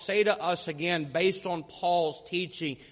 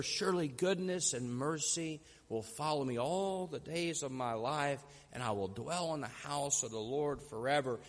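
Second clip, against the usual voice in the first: soft, low, reverent recital; hushed near-whisper; 4 semitones lower, 7 dB quieter than usual. Acted. Old preacher finishing the Psalm, voice merely a whisper. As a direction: drop right down, almost to a whisper. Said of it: "his voice was merely a whisper".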